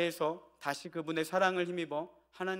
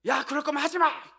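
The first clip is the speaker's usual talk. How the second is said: raised, high-pitched scolding, retold; retold angry outburst; 10 semitones higher, 5 dB louder than usual. Father retelling how he snapped at his son over a game, angry outburst. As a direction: reenact losing your temper, loud and high. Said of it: "화가 나서요".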